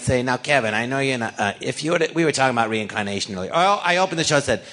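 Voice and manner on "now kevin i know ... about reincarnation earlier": lower-pitched, lightly put-on character voice; a hint of an impersonation; Harvey Fierstein. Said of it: "I really imitate him good".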